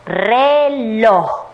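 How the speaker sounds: "reloj" drawn out as re, loj; separado en sílabas. Shown as a demonstration. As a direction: sound out "reloj" in two long syllables. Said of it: "luego vamos a separar en sílabas". ("reloj" alargado, sílaba por sílaba)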